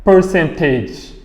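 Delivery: "Percentage" slowly with no R in "Per"; silent R. Shown as a demonstration. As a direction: drop the R in "Percentage", lengthening the vowel. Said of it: "on ne lit pas le R".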